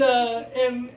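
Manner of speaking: ordinary talk, nothing marked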